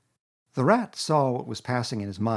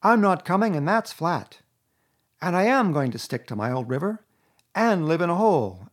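higher, louder flat refusal; stubborn Rat; 6 semitones higher, 6 dB louder than usual. A narrator's reading. Rat refusing Toad flatly, stubborn. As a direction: put his foot down.

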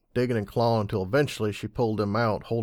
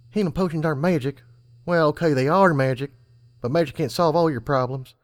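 higher, lively earnest filly; 6 semitones higher, 4 dB louder than usual. A narrator's reading. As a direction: lecture him like a know-it-all filly. Serenity voiced at length.

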